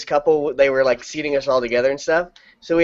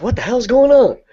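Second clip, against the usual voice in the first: startled passer-by; 10 semitones higher, 4 dB louder than usual. Acted. Pedestrians hearing music from a motorcycle, startled. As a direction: pitch leaping up in mock alarm. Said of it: "they'll be like".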